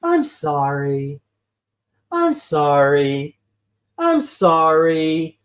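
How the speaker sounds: slow, drawn-out mock apology; lightly voiced oil baron, dragging each sorry; BP oil baron impression. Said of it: "He sounded like, uh, the B P oil baron from South Park".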